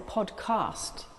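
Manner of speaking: podcast with a long broad ah, said slowly; posh podcast. Shown as a demonstration. Guest shows her proper podcast to the host, broad ah. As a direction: stretch the a in podcast like received pronunciation. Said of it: "I thought I'd better sound proper".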